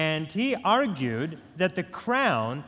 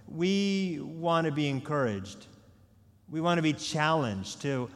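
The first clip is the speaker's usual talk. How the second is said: opening prayer. Real, not acted. Pastor prays before sermon.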